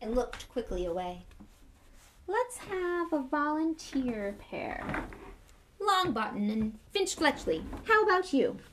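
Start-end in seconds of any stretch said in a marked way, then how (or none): 2.3-8.6 flustered Lockhart. Acted. Flustered Lockhart picks volunteers.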